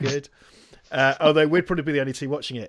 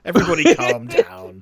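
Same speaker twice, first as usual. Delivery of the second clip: louder, higher acted plea to settle; raised-voice mock order; mock yell; 5 semitones higher, 10 dB louder than usual. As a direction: call it out over the chaos, half in jest. Acted call for calm, louder.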